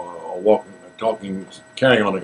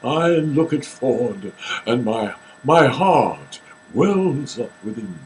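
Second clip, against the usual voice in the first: slow, grand theatrical sales pitch; Gielgud-style ad read; slower than usual. Retold or imitated. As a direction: savour each word like a stage actor. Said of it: "Do it like John Gielgud".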